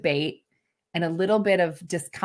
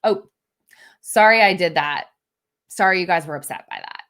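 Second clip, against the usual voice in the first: tossed-off sorry that blames the listeners; dismissive non-apology; 5 dB louder than usual. Shown as a demonstration. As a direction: brush the apology off lightly. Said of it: "That's not what we're talking about here".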